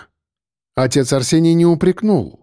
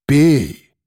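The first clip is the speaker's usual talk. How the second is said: even but stricter. A narrator's reading. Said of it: "ровно, но ... более строго повторил".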